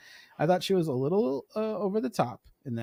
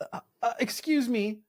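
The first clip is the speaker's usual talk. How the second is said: mock scolding; 4 semitones higher than usual.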